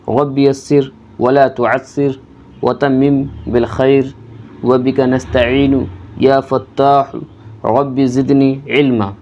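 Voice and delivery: slow, measured Arabic dua; slow prayer recitation. Acted. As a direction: recite the prayer word by word, unhurried.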